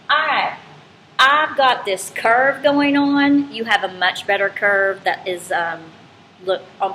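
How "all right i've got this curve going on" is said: slow, lightly voiced graph speaking; graph talking. Teacher explains to class, lightly voicing the graph slowly. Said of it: "That's basically telling me".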